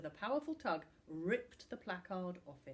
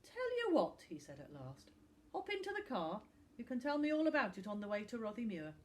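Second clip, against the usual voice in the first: cheerful footballer; 4 semitones higher, 5 dB louder, faster than usual. Acted. Tom agrees cheerfully.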